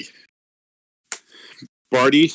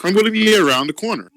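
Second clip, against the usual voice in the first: high squeaky voice; 9 semitones higher than usual. Acted. Character backing away, high.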